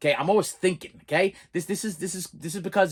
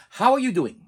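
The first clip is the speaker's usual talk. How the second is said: emphatic quote; 7 semitones higher, 4 dB louder than usual. Retold or imitated. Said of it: "I'm using quotation marks here".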